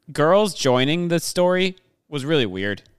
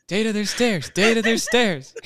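mock Data; 8 semitones higher than usual. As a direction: drag it out like a sulky kid. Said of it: "And he's like".

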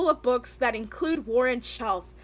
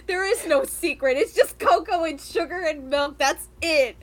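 ranting; 2 semitones higher, 5 dB louder than usual. Real, not acted. Ranting about hot cocoa.

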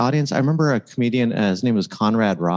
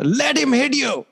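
high, hammed-up Indian accent, slowing on the punchline; slower than usual. Comedian retelling his first joke, Gandhi coach in Indian accent. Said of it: "Was the accent as good then".

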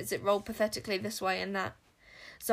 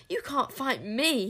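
menacing witch voice; 5 semitones higher, slower than usual. Acted. King Witch gloating.

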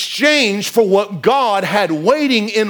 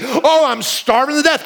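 mock starving; 4 semitones higher than usual. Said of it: "That's the way I feel".

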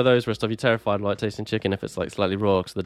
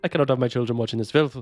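outraged helicopter mother; 3 semitones higher than usual. Retold or imitated. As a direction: play the horrified overprotective mum. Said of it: "helicopter mothers".

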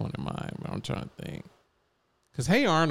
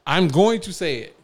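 heated rant; 7 semitones higher, 6 dB louder than usual. Real, not acted. Heated hot take.

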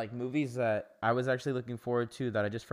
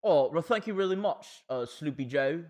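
put-on British accent; 4 semitones higher than usual. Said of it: "your accent's beautiful".

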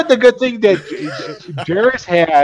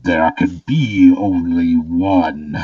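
slow, low voice echoing all around; resonating voice; 7 semitones lower, much slower than usual. Acted. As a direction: let it resonate like it fills the air. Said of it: "a voice that just resonates around you".

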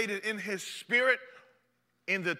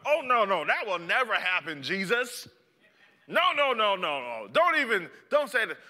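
protesting Peter; 2 semitones higher, 3 dB louder than usual. Acted.

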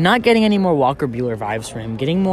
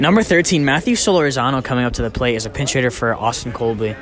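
announcer voice; 2 semitones lower than usual. Acted. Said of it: "I'll be the main announcer".

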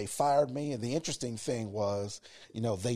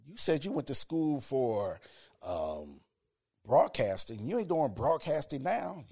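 lightly acted sceptical listener, higher; imagined challenge; 4 semitones higher than usual. Voicing audience's doubt about the broadcasting career, mildly challenging. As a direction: imitate someone stopping you to object. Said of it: "some of you probably said".

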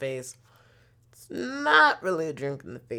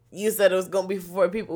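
fast, slightly higher echo of the driver's words; mock repeat; 4 semitones higher, 4 dB louder, much faster than usual. Throwing the driver's own words back at him, fast and incredulous. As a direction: fire his words back at him quickly. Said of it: "We's like".

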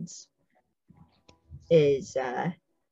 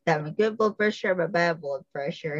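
sarcastic quote. Retold or imitated. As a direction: imitate a smart-aleck patient, mildly sarcastic. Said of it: "He was sarcastic".

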